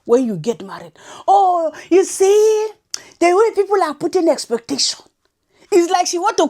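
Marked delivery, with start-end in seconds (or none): 1.3-5.0 hammed-up mimicry of her; mocking imitation. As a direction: whisper her words back in mockery. Mimicking the woman's words.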